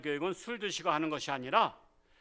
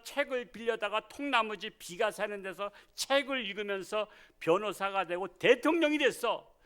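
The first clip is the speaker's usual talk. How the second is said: put-on drunk father scolding; 5 semitones higher than usual. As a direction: scold like a drunk dad showing off. Drunk father lectures son. (술 취한 아버지의 호통)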